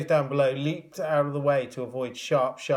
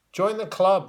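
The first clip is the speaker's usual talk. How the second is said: higher, louder wry quip; dry remark; 7 semitones higher, 6 dB louder than usual. A narrator's reading. Robin quipping to the blinded porter. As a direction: toss it off sardonically. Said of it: "remarked Robin".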